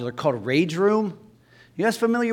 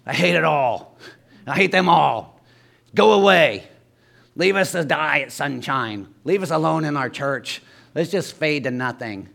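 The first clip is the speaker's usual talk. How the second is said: sour complainer. Retold or imitated. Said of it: "You're like".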